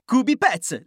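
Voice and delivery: brisk brand tag, punched; quick ad tag. Acted. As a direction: snap out the product name. Spot pubblicitario, nome ripetuto. (slogan pubblicitario rapido)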